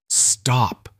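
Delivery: a mild tremble on one word; voice shaking. Acted. Sister stopping the threats against her brother, shaking. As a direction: cut him off, lightly shaken. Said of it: "Vivian's voice shook".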